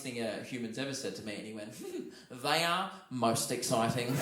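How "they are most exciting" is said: soft, slow, deliberate imitation of the clerk; low, drawn-out mock reverence; earnest hotel clerk. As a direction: confide it slowly with great weight. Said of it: "he looked me in the eye".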